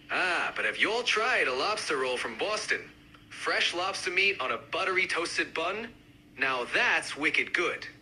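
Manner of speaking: lightly done Boston accent. Shown as a demonstration. Lobster roll fan joining the debate, mild Boston accent. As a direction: give it a hint of Boston. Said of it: "each accent, uh, represented by a speaker".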